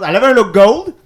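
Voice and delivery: high and loud praise; excited. Real, not acted. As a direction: gush about the look.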